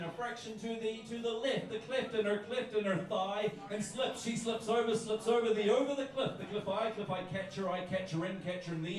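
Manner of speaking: rhythmic chained recitation, words tumbling into each other; performance poetry. Acted. Poet reciting wordplay to a bar crowd, rhythmic performance poetry. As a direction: roll the echoing phrases along in rhythm. Recites a word-play poem on stage.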